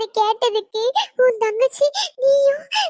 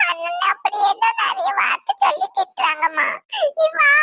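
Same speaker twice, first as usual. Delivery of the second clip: upset; 6 semitones higher than usual. Acted. Upset daughter begs mother to come.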